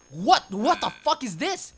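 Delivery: fast, high, loud disbelief; shocked. Real, not acted. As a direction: burst out in shock. Shocked by Atari game.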